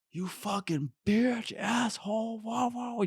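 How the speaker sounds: high-pitched, drawn-out imitation of a ranting man; strained high mock shout, trailing into wah-wah noises; mock yelling. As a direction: mimic an angry stranger's yell without full volume. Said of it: "starts yelling at me".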